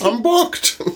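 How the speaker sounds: very high squeak; squeaky high voice. Pretend. Repeated in high voice.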